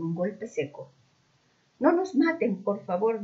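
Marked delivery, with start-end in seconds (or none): 1.8-3.2 high hammed-up plea for mercy; mock terror, pitched way up; fake terrified scream. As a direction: overact the fear, shrieking. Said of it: "gritó Camila".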